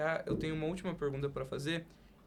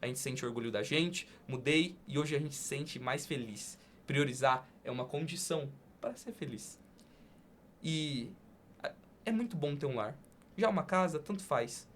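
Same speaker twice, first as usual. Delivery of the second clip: poem reading; 3 dB louder than usual. Acted. Host closes the podcast by reciting a poem, earnest. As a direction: declaim it like a heartfelt poem.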